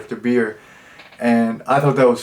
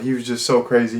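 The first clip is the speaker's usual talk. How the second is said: ordinary talk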